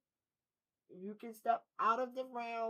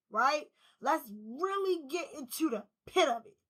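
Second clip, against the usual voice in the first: fired-up retold resolve; 3 semitones higher, 6 dB louder than usual. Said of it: "You was like, Look".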